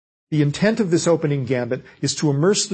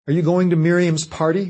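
lightly voiced Mary; 4 semitones higher than usual. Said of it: "Mary asked".

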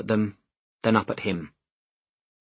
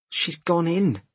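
higher-pitched woman's voice; anxious woman; 7 semitones higher, slower than usual. A narrator's reading. Woman to man arriving late, high anxious report. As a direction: break the news in a high voice.

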